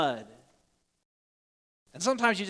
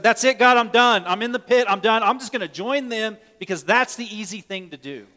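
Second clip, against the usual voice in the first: angry giving up; 3 semitones higher, 6 dB louder than usual. Retold or imitated. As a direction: shout it like a man at the end of his rope. Jeremiah's imagined angry giving up.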